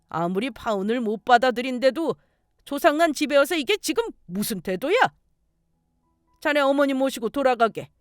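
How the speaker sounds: indignant uncle laying down the law; acted scolding family elder; stern threat. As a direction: warn the intruder off sternly. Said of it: "경찰에 고소하겠다고 으름장을 놨어요".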